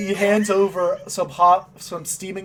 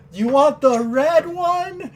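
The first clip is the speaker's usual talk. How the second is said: slow mocking shopkeeper; 7 semitones higher, 4 dB louder than usual. Shopkeeper offers bows.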